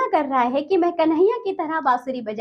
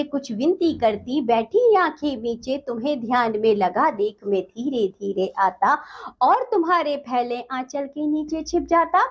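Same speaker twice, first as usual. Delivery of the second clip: poem recitation. Acted. Teacher recites poem stanza.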